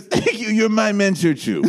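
high, slow theatrical thanks; impression of a singer. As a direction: sweep it out like a grand star. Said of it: "And she goes".

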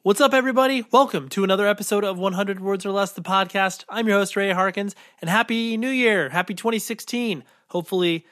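stuffy, blocked nose; talking through a head cold; nasal voice. Real, not acted. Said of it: "I apologize for the nasally nature of my voice".

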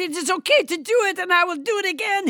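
put-on Trump with a thick French accent. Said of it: "French Trump".

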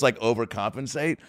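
usual speaking voice

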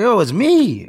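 very high-pitched imitated plea; pleading recognition. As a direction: mimic a victim urging his robber to recognize him.

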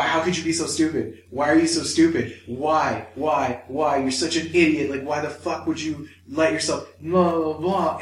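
mildly heated mock scolding; imitating an angry inner voice; self-berating. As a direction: hammer out repeated accusing questions. Acting out berating himself.

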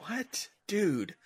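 high, soft mock disbelief; imagined baffled reaction. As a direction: imitate stunned executives without raising the volume. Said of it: "they're like".

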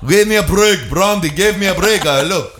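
put-on snooty kid voice. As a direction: play a huffy kid snapping at Brandy. Voicing the kid scolding Brandy.

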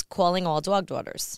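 thick New York accent, rounded vowels in dog and daughters; old New York accent. Shown as a demonstration. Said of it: "which started out as".

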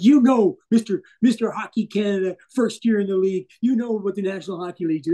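mock a boss tearing into a rookie; imitated scornful outburst, easing as it goes; retold angry explosion. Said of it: "and then he just explodes".

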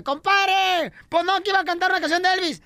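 protesting compadre. Acted. Compadre reclama al borracho cantor.

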